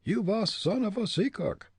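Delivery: put-on high German-accented jeer; talking head. A narrator's reading. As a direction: insult in a high ventriloquist's voice. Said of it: "came from the head".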